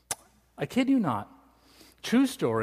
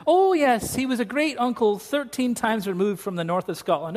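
put-on Scottish accent; 5 semitones higher than usual. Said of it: "Ian McKenzie from Scotland".

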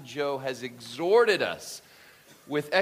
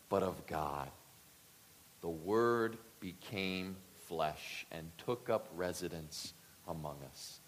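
epic fantasy narrator; 3 semitones lower than usual. Acted. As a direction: read it like an epic movie opening. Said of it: "We almost need a soundtrack or something".

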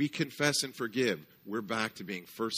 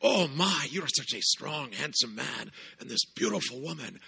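gushing greeter; 5 semitones higher than usual. Retold or imitated. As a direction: flatter the couple lavishly. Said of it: "He goes".

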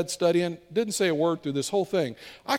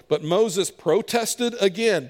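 slow scripture read; 2 semitones higher, slower than usual. Shown as a demonstration. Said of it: "reading scripture".

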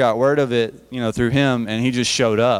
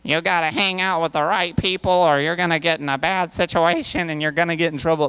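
higher, mocking old-man lecture; old dude lecturing; 4 semitones higher than usual. Pastor mocking how an old man lectures youth. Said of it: "this old dude going".

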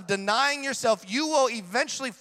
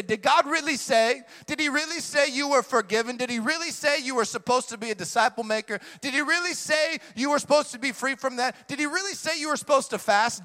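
higher, taunting devil's questioning; mocking tempter; 5 semitones higher than usual. Preacher voicing the devil's doubts, higher and taunting. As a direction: needle them like the doubting devil. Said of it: "He's gonna say".

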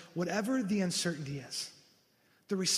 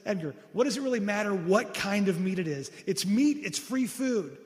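exasperated; 3 semitones higher, 6 dB louder than usual. Retold or imitated. Wife exasperated with orphanage director.

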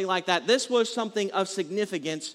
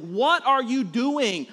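exasperated dad; 3 semitones higher, slower than usual. Retold or imitated. Dad reacting to kids' noise.

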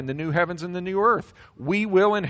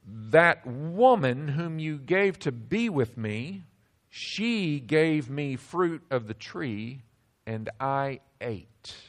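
sheepish excuse; slower than usual. Acted. Adam's excuse to God.

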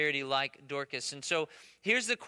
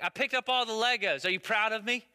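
higher, eager child's boast, lightly imitated; retold proud boast; 4 semitones higher than usual. Son running over to his dad, retold proud boast. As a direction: imitate a kid fishing for praise.

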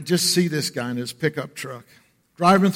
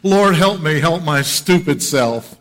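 emphatic prayer; 7 dB louder than usual. Shown as a demonstration. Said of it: "How many can identify?".

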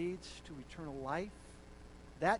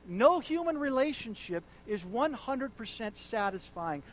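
louder repeat stressing no; emphatic repeat; 3 semitones higher, 6 dB louder than usual. Shown as a demonstration. Preacher repeating the quote louder to the congregation. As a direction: drive the line home.

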